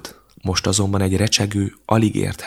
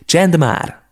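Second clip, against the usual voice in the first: high, loud shout to shut them up; snapping shout; 10 semitones higher, 7 dB louder than usual. A narrator's reading. Becca silences her brothers with a loud high shout. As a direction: bark it at the bickering boys. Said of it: "húrogta le őket Becca".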